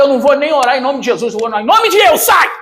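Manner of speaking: mock commanding shout at the demon; retold rebuke. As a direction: cast it out, half in jest. Retells casting out a demon. (repreensão imitada, em tom de brincadeira)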